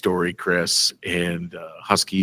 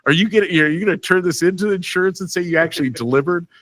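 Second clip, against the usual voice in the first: joking mock question; 10 semitones higher, faster than usual. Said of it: "You know, like".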